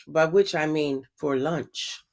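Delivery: low, slow, soft wicked aside; the wolf whispers his true plan; sly whisper. A narrator's reading. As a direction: hiss the joke under your breath. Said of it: "And then he whispered".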